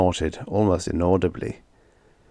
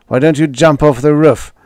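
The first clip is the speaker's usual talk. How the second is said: irritated jab; 7 semitones higher, 8 dB louder than usual. A narrator's reading. Roy snapping at Edith.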